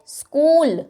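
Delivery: "स्कूल" with a drawn-out ऊ; long oo sound. Shown as a demonstration. Teacher models long oo in "स्कूल" for class. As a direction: hold the ऊ in "स्कूल". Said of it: "ये long sound है".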